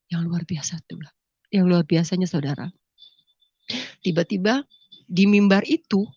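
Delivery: usual speaking voice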